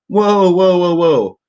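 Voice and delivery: loud, high startled whoa, pitched well up; surprised whoa. Retold or imitated. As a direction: blurt it out like you can't believe the size. Friend reacts to hash size.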